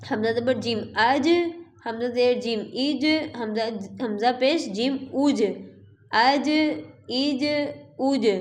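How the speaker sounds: the ج in اج bounced with an echo; qalqala echo. Shown as a demonstration. Teacher drilling qalqala jeem to students. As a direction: release the ج in اج, ایج, اوج with a bounce. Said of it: "یہ بھی حروف قلقلہ میں سے ہے جیم".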